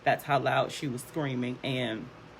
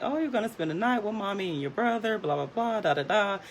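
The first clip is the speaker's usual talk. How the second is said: higher, lighthearted mom chatter; light, teasing singsong to a daughter; joking mom; 6 semitones higher, faster than usual. Retold or imitated. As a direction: breeze through it playfully, pitched up. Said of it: "we're joking around".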